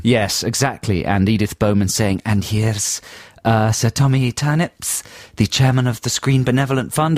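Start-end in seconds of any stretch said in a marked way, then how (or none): 2.3-7.2 put-on a weak Scottish accent, announcer style; slipping Scottish accent. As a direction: attempt a Scottish presenter, half-heartedly. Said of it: "that was my Scottish accent".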